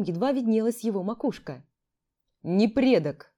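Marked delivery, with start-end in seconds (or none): 2.4-3.3 stony voice. Acted. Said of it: "каменным голосом отчеканил".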